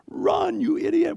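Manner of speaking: high, loud mock yell at a daughter; a quick hammed-up sideline scream; mock sideline dad yell. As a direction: play the screaming softball dad. Screaming sideline dads quoted.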